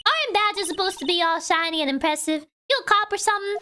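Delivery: put-on Southern accent. Photographer scolding the kids about her film, in a Southern accent. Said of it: "blow the southern accent".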